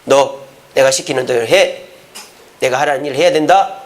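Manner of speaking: firm, acted command; forceful order. A master forcing a reluctant disciple, forceful order. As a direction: lay down the order firmly. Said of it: "강제적으로라도".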